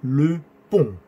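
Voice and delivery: "Le pont" with a nasal French o; slow "Le pont", vowel through the nose. Shown as a demonstration. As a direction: end "pont" on a nasal o, silent t. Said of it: "Sonido O nasal".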